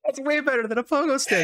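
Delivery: high, laughing line; laughing through words. Real, not acted. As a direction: speak while cracking up. Laughing while talking.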